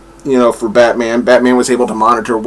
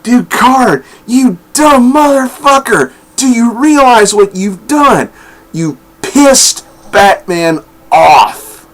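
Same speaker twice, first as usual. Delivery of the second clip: higher, worked-up fan telling off the villain; mock scolding; 8 semitones higher, slower than usual. Fan yelling at Ducard after reading, half-mock outrage. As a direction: scold him like he made a fatal mistake. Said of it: "I was like".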